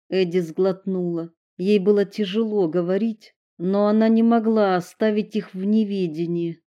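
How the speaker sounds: ordinary delivery, nothing marked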